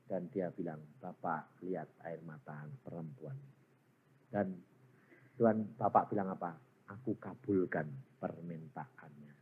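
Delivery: low, soft and solemn; hushed sermon storytelling. A narrator's reading. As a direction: drop to a reverent hush as you tell it. Hushed retelling of scene in heaven. (bercerita pelan, rendah dan khidmat)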